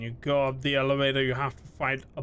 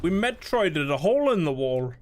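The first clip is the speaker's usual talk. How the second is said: excited; 4 semitones higher, 7 dB louder than usual. Real, not acted. Excited game reaction.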